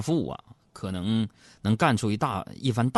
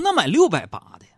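bright, louder urging to buy the dearer one; eager; 8 semitones higher, 7 dB louder, faster than usual. Retold or imitated. Son eagerly urging his father to buy the dearer coat, louder. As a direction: push dad eagerly toward the pricier coat.

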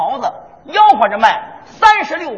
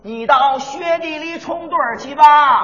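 hawking call; slower than usual. Acted. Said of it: "这就是北京故意".

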